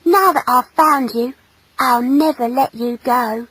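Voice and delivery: lightly voiced boyish adoration; lovestruck boy. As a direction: promise it tenderly as a young boy. Boy declares his love.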